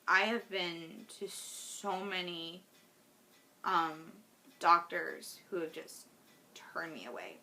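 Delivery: fighting tears as the words fade; holding back tears. Real, not acted. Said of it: "I'm gonna try not to cry".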